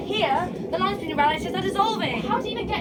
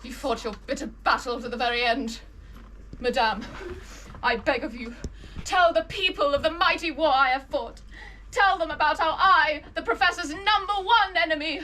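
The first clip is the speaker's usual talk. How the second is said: lightly voiced dying hero; hammed-up dying farewell speech; wounded soldier gasping; 3 semitones lower than usual. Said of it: "Why the fuck is it talking like that?".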